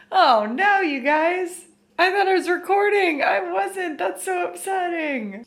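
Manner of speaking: high, loud dismayed laughing wail. Real, not acted. Realizes she wasn't recording.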